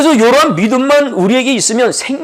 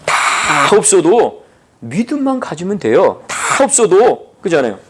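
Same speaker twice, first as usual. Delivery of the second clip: slow, weighty sermon proclamation; emphatic preaching; slower than usual. Acted. Pastor proclaiming faith to the congregation, slow and emphatic. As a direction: hammer each phrase home slowly.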